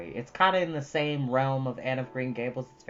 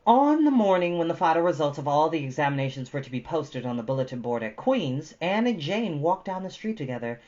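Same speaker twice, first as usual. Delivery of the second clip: brighter, louder read-aloud voice; story narration; 5 semitones higher, 7 dB louder than usual. Acted. Reading Anne of Green Gables aloud to viewers, lively narration. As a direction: read the chapter to the audience with lift.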